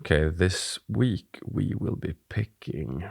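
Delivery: normal talking voice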